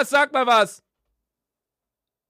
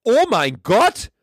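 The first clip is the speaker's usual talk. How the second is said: stunned gasp; 4 semitones higher, much slower than usual. Real, not acted. Reacts to Siri's answer.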